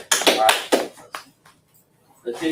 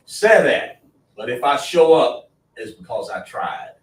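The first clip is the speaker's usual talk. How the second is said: emphatic preaching; 6 dB louder than usual. Real, not acted. Preacher insisting on honest speech.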